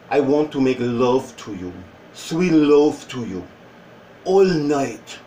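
lightly put-on seductive Spanish accent; sexy Spanish accent. Shown as a demonstration. Showing how a Spanish accent can be sexy, seductive Spanish accent. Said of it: "The Spanish accent, with some people".

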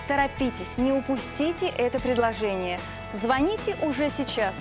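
infomercial. Acted. TV shopping ad read.

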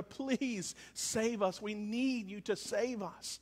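a quiet, slow plea to be saved; hushed and slow, begging for rescue; soft pleading. Acted. Preacher voicing the desperate crowd, softly pleading. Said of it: "It was like a".

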